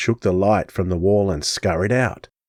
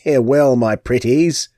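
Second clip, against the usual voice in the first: cackling gypsy crone; 3 semitones higher, slower than usual. Acted. Gypsy crone cackling at her captives. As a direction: cackle it out like a gloating hag. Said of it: "she cackled".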